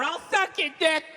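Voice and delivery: imitating meth addict.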